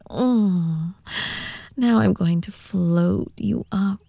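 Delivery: whispering. Acted. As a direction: whisper close to the mic. Whispered roleplay throughout.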